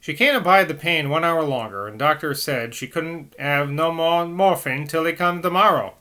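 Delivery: Cockney. Acted. Nurse begging the priest for morphine, urgent Cockney. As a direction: plead in a Cockney accent, out of breath. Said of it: "I'm gonna have to do some Cockney".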